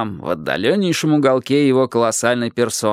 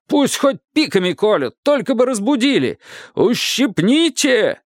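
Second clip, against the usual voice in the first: high, commanding royal roar; roaring tyrant king; 7 semitones higher than usual. A narrator's reading. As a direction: bellow orders at the army. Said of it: "Взревел король гласом иерихонским".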